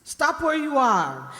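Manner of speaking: high, loud order; commanding shout. Acted. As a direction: stop them dead with it. Woman with gun commands them.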